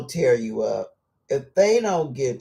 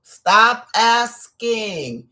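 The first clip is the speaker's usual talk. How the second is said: stern divine command; 4 semitones higher, 3 dB louder, slower than usual. Retold or imitated. God's voice retold, slow.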